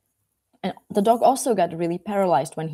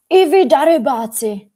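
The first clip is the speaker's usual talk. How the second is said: loud, high, indignant outburst; acted shout of outrage; angry shout; 7 semitones higher, 8 dB louder than usual. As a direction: scold the rascals at full voice. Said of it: "he starts shouting".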